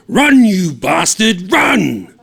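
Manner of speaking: high, loud and slow, mocking yell; teasing call to run. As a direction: yell it like a warning. Yelling teasing warning.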